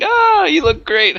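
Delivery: high, drawn-out gush; mock-gush over a date, stretched out; high-pitched, slow, over-the-top flattery; gushing compliment.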